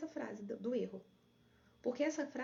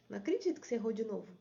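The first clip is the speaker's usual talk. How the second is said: quick, louder exasperated scolding; dissatisfied inner critic; 4 dB louder, faster than usual. Retold or imitated. Coach replaying her inner critic's phrase, quick fed-up scolding. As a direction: snap it out in disbelief. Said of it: "nesse tom de insatisfação".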